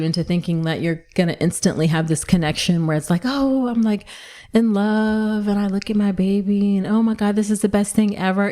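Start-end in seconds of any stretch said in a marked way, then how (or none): 3.2-8.5 mock gushing. Imagining instant love for a new baby, mock gushing. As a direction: lightly gush like a smitten new parent.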